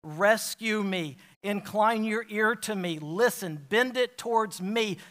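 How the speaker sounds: crying out. Retold or imitated. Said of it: "and he's crying out".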